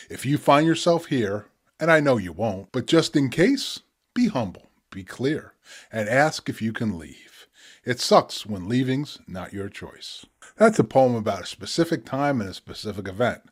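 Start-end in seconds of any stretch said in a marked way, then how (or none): 0.1-10.3 measured poetic reading with pauses; spoken word poetry. Acted. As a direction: read the poem with weight, unhurried. Reads his poem The Back Rooms.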